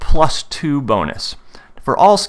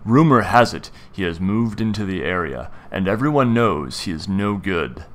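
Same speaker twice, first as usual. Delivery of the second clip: measured storyteller's scene setting; game master narration. Acted.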